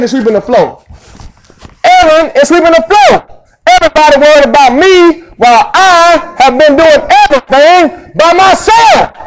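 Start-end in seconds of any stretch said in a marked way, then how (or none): 1.8-9.1 mock sermon voice from the pulpit; a preacher's pulpit cadence, raised and slowed at the end; pulpit preaching voice. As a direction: preach it to the congregation, a bit louder, drawing out the last words. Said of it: "That's what I sound like in the pulpit".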